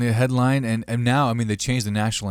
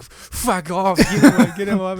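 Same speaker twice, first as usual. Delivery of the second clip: mock citizen; 8 semitones higher, 4 dB louder than usual. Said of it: "the citizens are just like".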